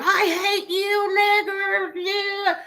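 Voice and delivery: high, slow sneering put-on voice; mock racist taunt. Mocking a racist who insults her, high and slow.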